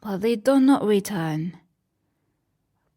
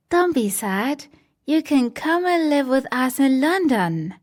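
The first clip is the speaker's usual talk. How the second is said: gentle, higher reassurance; comforting Wendy; 5 semitones higher than usual. Acted. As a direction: soothe the sad boys. Wendy comforts lost boys.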